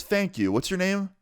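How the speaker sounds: high-pitched mom voice; imitated mom. Mom thanking her son's visitor, imitated high voice. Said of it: "and she goes".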